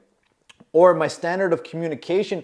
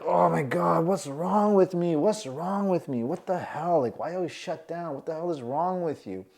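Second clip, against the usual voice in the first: hushed, self-reproachful muttering; self-scolding inner voice; 6 dB quieter than usual. Retold or imitated. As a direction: berate yourself under your breath.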